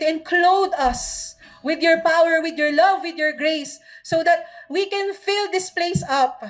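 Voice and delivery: earnest spoken prayer, rising in intensity toward the middle; fervent prayer. Acted. Pastor praying over the church, fervent prayer. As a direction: pray over the congregation with growing conviction.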